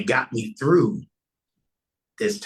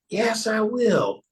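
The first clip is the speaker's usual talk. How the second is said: lightly voiced minister; 5 semitones higher than usual. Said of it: "He said".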